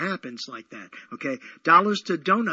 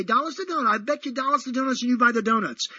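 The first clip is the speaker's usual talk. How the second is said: quoting himself; 7 semitones higher, 3 dB louder, faster than usual. Retold or imitated. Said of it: "I say".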